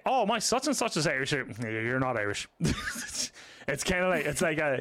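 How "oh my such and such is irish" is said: foreigner claiming Irishness. Retold or imitated. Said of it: "when they say".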